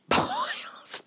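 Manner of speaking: laughs out the name high in her voice; laughing name slip. Real, not acted. Catching her own slip on the actor's name, laughing. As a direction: giggle through the slipped name Bowles. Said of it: "you keep calling him Boyles".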